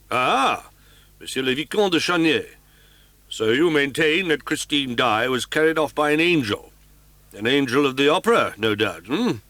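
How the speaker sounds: police commissary amused and sceptical. Acted. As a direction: humour the young man, doubting. Commissary questions Raoul sceptically.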